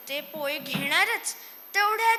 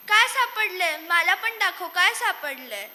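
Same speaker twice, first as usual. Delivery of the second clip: eager question; 3 semitones higher, 6 dB louder than usual. Acted. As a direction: pester him to show it. Mice eagerly ask what he found. (उत्सुकतेने विचारणे)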